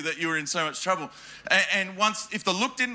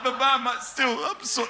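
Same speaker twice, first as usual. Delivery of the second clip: put-on whiny child; 6 semitones higher than usual. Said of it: "I'd be like".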